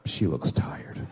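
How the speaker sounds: slow whisper; whispered thought. Retold or imitated. Husband looking at sleeping wife, slow whisper. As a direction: hush it so she won't wake.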